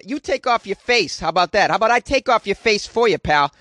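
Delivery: high-pitched mock outrage; mock indignant comeback. Woman talking back to an order to undress, hammed-up indignation. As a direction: fire back as if affronted, playing it for laughs. Acted retort to airport staff.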